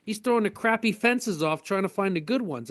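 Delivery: high, fast complaint about Pablo; too busy with his buddy; mock exasperated excuse. Cart pusher explains he's busy watching Pablo, exasperated. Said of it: "I said".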